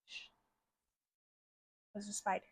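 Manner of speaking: hushed shush. Retold or imitated. Mister Howard hushing Wallace about the spider, hushed. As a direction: hush him like a creepy host.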